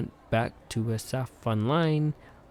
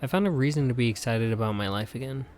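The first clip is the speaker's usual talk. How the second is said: Viola voice; faster than usual. Acted. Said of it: "says Viola".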